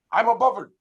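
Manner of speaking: American mimicking a British catchphrase; attempted British accent. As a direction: have a rough go at a British accent. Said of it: "forgive me if I get it wrong".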